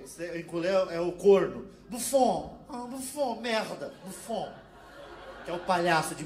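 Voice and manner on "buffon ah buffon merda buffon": French cursing. Retold or imitated. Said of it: "o francês".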